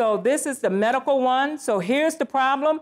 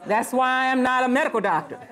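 laughing; faster than usual. Real, not acted. Joking about failing medical quiz.

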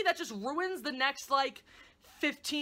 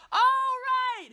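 mock realization; 12 semitones higher, 7 dB louder than usual. Real, not acted.

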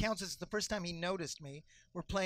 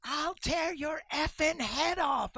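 threatening dad; 8 semitones higher, 4 dB louder, much slower than usual. Retold or imitated. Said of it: "I hear him say".

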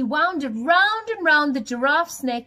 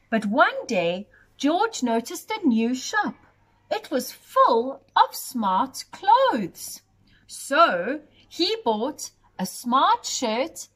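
story narration. A narrator's reading. Reading a picture book aloud to children, lilting storyteller voice. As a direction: read it to little ones at bedtime.

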